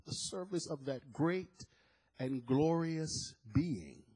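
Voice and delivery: drawn-out, weighty "great and glorious being"; slow savouring. Shown as a demonstration. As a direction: linger on every word, very slow. Repeats phrase slowly to savour it.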